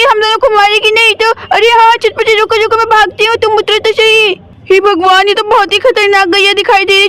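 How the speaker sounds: put-on small kids scrambling away from a cow in mild panic; scared kids. Children fleeing the strange cow, lightly voiced and mildly frightened.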